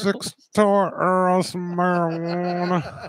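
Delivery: slow, laughing mock of the caller; laughing imitation. Cracking up while mimicking the caller's "Earls". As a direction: laugh through a drawn-out "Earls". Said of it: "I wish he said Earls".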